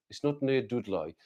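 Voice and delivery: put-on Black Country twang, Dudley as "Dudloy"; mock-broad Black Country accent. Shown as a demonstration. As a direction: exaggerate the Black Country vowels. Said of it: "I don't talk like that".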